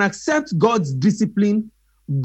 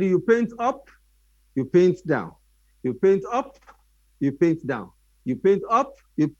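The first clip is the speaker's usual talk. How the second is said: rhythmic instruction. Acted. Miyagi's up-down painting drill.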